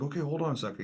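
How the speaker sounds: imitated robbery victim. Acted victim answering the robber.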